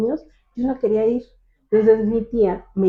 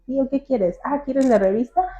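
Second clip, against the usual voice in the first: agudo y dulce, como hablándole a un niño; voz aguda de niña; 6 semitones higher than usual. Retold or imitated. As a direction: imitando su voz de niña con el tío. Habla a su tío de niña. (voz aguda de niña hablándole a su tío)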